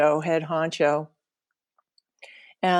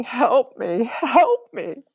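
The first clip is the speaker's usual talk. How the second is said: desperate cry; 6 semitones higher, 3 dB louder, much slower than usual. Retold or imitated. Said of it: "She was screaming".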